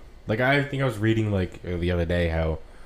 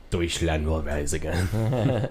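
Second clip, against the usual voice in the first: put-on German accent; 3 semitones lower, much slower than usual. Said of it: "Germany's like".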